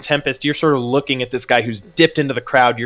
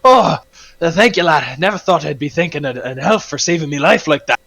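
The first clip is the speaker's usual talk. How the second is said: put-on higher, louder accented dwarf voice; grateful dwarf; 5 semitones higher, 3 dB louder than usual. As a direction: gasp out thanks as a rescued dwarf. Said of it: "this br-, blue-bearded dwarf is".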